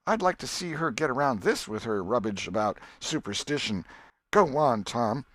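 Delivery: put-on an old country aunt astonished and triumphant; Aunt Polly voiced. Aunt Polly marvels at dream.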